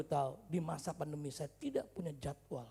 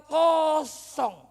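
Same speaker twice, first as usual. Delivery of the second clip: louder, higher drawn-out reply; loud emphatic answer; 12 semitones higher, 16 dB louder than usual. Retold or imitated. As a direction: belt it out for comic emphasis. Answer to retold schedule question.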